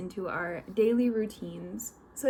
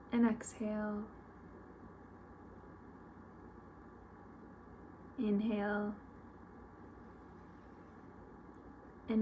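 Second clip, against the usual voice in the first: guided meditation; 5 dB quieter than usual. Real, not acted. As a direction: lead them gently, with long pauses between instructions.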